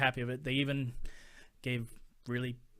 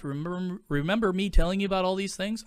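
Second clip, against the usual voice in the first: exasperated clerk; 5 semitones higher, 8 dB louder than usual. Retold or imitated. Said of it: "And I go".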